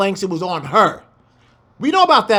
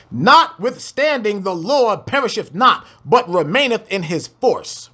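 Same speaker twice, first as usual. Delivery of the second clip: scripture reading; 2 semitones higher than usual. Acted. Reads scripture aloud.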